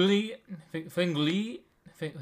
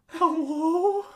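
higher, louder frightened cry; scared call; 11 semitones higher, 7 dB louder than usual. Retold or imitated. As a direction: call out, startled and afraid. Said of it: "And I was like".

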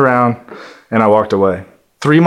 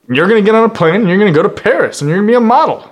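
rushed pitch; 5 semitones higher, much faster than usual. Retold or imitated. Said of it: "he's like".

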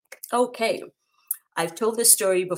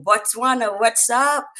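loud, high call to Botswana; excited shout-out; 5 semitones higher, 8 dB louder, slower than usual. Real, not acted. Host calling out to viewers in Botswana, loud and high.

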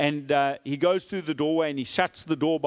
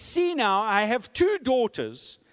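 pleading offer; 6 semitones higher than usual. Acted. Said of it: "Lot says".

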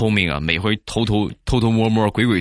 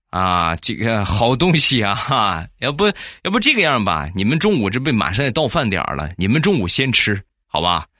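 embarrassed neighbor. Acted. Neighbor replies to an offer of wild mushrooms, mildly embarrassed. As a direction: hem and haw through a mildly sheepish reply. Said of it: "也是挺难为情的啊".

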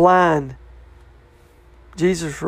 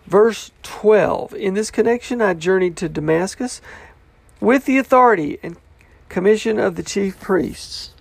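lively, measured Bible reading; scripture reading; 3 semitones higher than usual. Acted. Preacher reads Paul's account to the congregation, scripture reading. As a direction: read the verse out to the congregation.

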